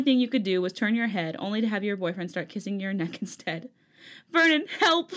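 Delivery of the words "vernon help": urgent hushed shout, higher; whisper yelling. Acted. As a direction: plead in a loud whisper. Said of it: "you whisper shouted".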